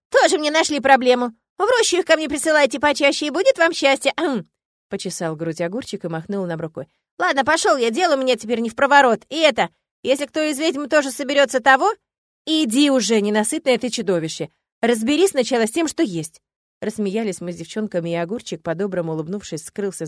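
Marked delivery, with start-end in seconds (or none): 0.1-4.5 put-on louder, higher folksy old spirit; gruff-kind forest spirit. A narrator's reading. 7.2-16.4 put-on louder, higher folksy old spirit; gruff-kind forest spirit. A narrator's reading.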